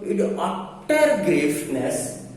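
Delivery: "utter" stretched out slowly; stress on UTTER. Shown as a demonstration. Teacher demonstrating emphatic adjectives, long drawn-out "utter". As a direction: draw out "utter" to intensify the noun. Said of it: "they are giving emphasis on the noun".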